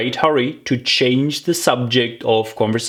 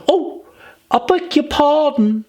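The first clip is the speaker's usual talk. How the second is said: put-on much higher, startled girlish sorry; quick apology. Alice apologising to the bristling mouse, high and quick. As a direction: catch yourself and apologise fast. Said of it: "cried Alice again".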